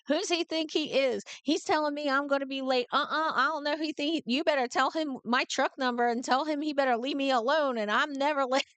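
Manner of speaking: telling him off with South Philly attitude, replayed; retold angry rant. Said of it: "I was yelling at my dispatcher".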